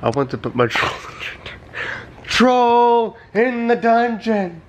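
slow, high, cracking up mid-line; laughing. Acted. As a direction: struggle through the line laughing. Reading smutty troll meme.

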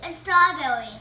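talking while chewing; words round a jelly bean; mouth full. Real, not acted. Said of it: "Is that strawberry".

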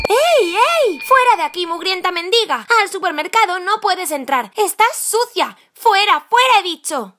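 angry shouting. Acted. Shopkeeper throwing a dirty beggar out, angry shouting. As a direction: order them out indignantly.

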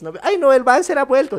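high mock-weepy voice; imitated tearful ladies. Old ladies crying in the street, mock tearful. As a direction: imitate women wailing lightly. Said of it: "Algunas señoras estaban llorando".

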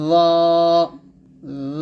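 ল said full and thick, tongue tip on the upper teeth; heavy letter demo. Shown as a demonstration. Teacher modelling the thick ল. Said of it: "এরকমভাবে।".

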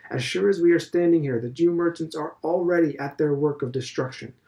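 a hint of a pompous old headmaster; lightly voiced Mr Deasy. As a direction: lecture it like a self-assured elder. Deasy's tirade.

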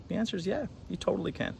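excited. Real, not acted. Upbeat answer to question.

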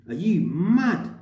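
loud, drawn-out outraged question; incredulous challenge. Retold or imitated. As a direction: re-enact squaring up, stretched and loud. Re-enacting a confrontation at work.

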